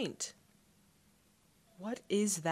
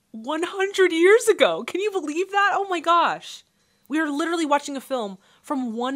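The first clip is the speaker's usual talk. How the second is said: much higher and louder, a real thrilled squeal; amazed excitement; 11 semitones higher, 10 dB louder than usual. Real, not acted. Amazed at film's age.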